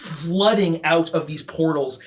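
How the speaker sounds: steady descriptive narration over music; game master scene setting. Acted. Game master setting the scene for the players, measured narration. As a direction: paint the hellscape for the party.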